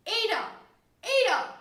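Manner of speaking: high, loud call up the stairs; bawling upstairs. Acted. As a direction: bawl for someone on the floor above. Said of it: "He bawled upstairs".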